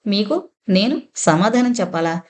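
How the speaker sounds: every word of మీకు నేను సమాధానం చెప్పాలా set apart and leaned on; mild deliberate word-by-word stress; each word pressed. A narrator's reading. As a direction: press each word separately, calm and firm. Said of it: "ఒక్కో మాట విడివిడిగా నొక్కి నొక్కి".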